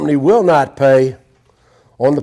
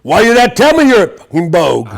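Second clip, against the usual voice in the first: put-on Russian accent; 2 semitones higher, 4 dB louder than usual. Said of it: "He goes in there".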